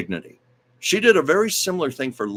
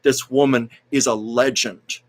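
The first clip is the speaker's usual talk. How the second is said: a bit louder, firm address to the crowd; mock announcement; 3 dB louder, slower than usual. A singer addressing the Oscars audience, firm and raised. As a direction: demand respect from the room. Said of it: "basically saying to the audience".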